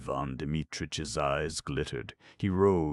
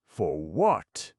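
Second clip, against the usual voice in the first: a mildly louder, higher mock scream; 4 semitones higher, 7 dB louder than usual. A narrator's reading. Ivan Dmitrich screaming at the doctor, mild mock scream. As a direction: push the question out in a raised voice. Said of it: "screamed Ivan Dmitrich".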